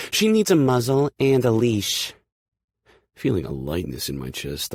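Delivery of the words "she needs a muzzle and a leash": high, loud, furious jab; angry snap. Acted. Aspen snapping at Kay, furious at Hurricane. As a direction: lash out with contempt. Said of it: "Aspen snaps".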